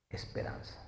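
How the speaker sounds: Esperanza breathed out in a whisper; whispered reveal. Real, not acted. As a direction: hush it like a secret revealed. Reveals the word's meaning. (susurrado como revelación)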